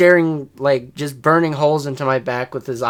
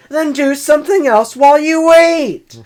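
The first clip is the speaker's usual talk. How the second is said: high, loud snappy comeback; sassy imagined retort; 14 semitones higher, 10 dB louder than usual. Pretend. Imagining snapping back at the coworker, loud sassy retort. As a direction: tell him off with attitude.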